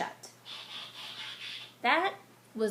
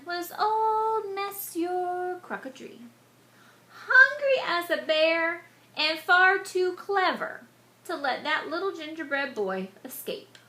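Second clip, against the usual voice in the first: ominous storytelling; 6 semitones higher, 5 dB louder than usual. A narrator's reading. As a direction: draw out the crocodile's menace. Introducing the crocodile.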